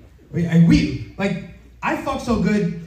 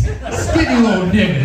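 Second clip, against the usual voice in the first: dad quote repeated; 4 semitones higher, slower than usual. Retold or imitated. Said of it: "That's what he said".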